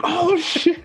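squeaky high surprised "oh, shit"; high mock gasp. Kids passing the homeroom, high mock shock. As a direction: gawk at the shoes in a high voice. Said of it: "walking past your homeroom like".

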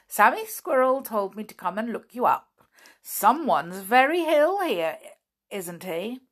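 a hint of a jolly doctor; visiting doctor. Doctor asks Flip about the patient, lightly voiced and brisk.

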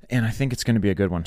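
breathless after pull-ups; out of breath. Real, not acted. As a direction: talk while still catching breath. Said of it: "I'm out of breath".

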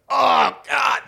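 Irish person yelps high and loud in shock; shocked Irish exclaim. Retold or imitated. Irish tasting bourbon, shouted shock. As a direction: shout a startled oh God as if bourbon burns. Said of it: "they freak out".

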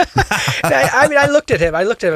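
high, loud, excited burst. Real, not acted. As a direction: nearly squeal with excitement.

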